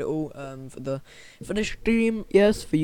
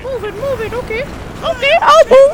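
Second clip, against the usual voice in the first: high squeaky, louder toward end; squeaky mock voice; 8 dB louder than usual. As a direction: answer like a squeaky cartoon. Squeaky reply to game.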